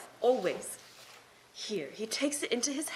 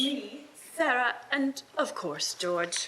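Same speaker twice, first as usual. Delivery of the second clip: teasing reveal; slower than usual. Acted.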